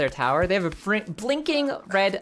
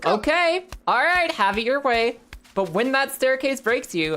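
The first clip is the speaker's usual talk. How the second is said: higher, hammed-up huffy old man; Jim's mock resignation; 6 semitones higher than usual. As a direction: throw up your hands, pitched higher. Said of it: "Jim says".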